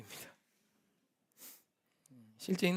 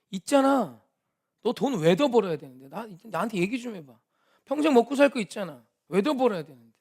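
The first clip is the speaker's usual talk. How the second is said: raised, louder, higher questioning of a friend; pressing a friend hard, voice raised; retold loud pressing; 3 semitones higher, 9 dB louder than usual. Pastor retelling how he pushed his rich friend, loud and high.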